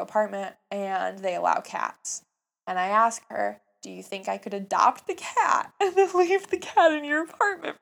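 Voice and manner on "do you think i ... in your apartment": high, loud pleading with a laugh in it; excited, high-pitched ask; eager pleading request. Retold or imitated. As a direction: beg a big favour, pitched up and forceful. Pleading request to a friend, retold.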